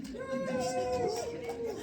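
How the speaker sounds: high, very slow held squeal; drawn-out joke. Pretend. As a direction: stretch it out on a high held note. Singsong joke retraction before usual repeat.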